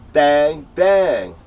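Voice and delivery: two loud, separate bangs; imitated gunshots. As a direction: fire off each bang like a mock shot. Mimics shooting a gun.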